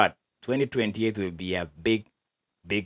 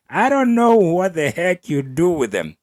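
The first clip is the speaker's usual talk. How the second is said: usual speaking voice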